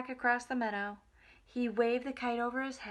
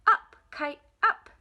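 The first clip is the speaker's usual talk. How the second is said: loud call up at the kite; shout; 7 semitones higher, 11 dB louder than usual. A narrator's reading. Toad shouting at the kite in the meadow, loud. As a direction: yell it skyward with hope. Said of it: "He shouted".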